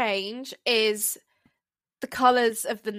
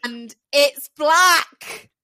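slow, louder, pitched up on black; dramatic reveal; 5 semitones higher, 6 dB louder, much slower than usual. Real, not acted. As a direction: drag out the reveal, landing on black.

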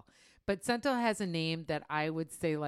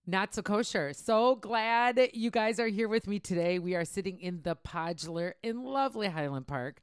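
show intro; 3 semitones higher, 5 dB louder than usual. Real, not acted. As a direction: open the show big and loud. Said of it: "I'll do my intro".

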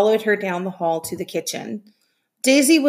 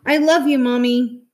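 tearful farewell; 6 semitones higher, 4 dB louder than usual. Acted. Children farewell through tears.

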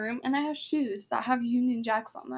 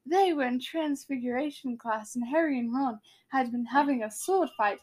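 British-accented story reading. Shown as a demonstration. Reading out the classroom story, British accent. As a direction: read on in an attempted British accent. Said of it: "I can do really good British accents".

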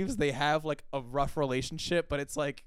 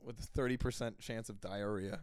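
low, soft assistant forecast; understated machine deadpan; Siri voice; 4 semitones lower, 8 dB quieter than usual. Acted. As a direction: read the forecast like a quiet voice assistant. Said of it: "she says in her, like, Siri voice".

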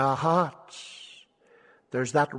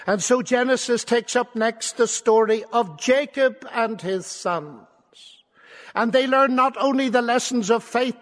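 higher, ringing Bible exposition; impassioned preaching; 6 semitones higher, 5 dB louder than usual. Real, not acted. Preacher introducing Jacob and his ladder, impassioned preaching. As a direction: proclaim the story to the whole room.

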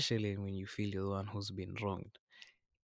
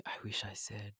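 regretful whisper; 5 dB quieter than usual. Retold or imitated. Imagined regret, whispered to oneself.

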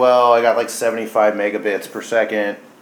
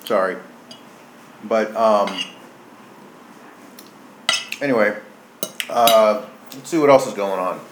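mouth full. Real, not acted. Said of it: "I'm gonna be talking when I got food in my mouth".

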